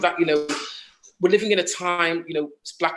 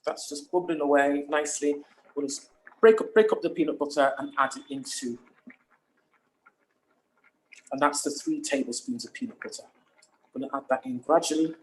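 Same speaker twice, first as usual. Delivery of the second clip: talking while chewing gum. Real, not acted. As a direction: speak around a piece of gum. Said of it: "Sorry, I'm chewing gum here".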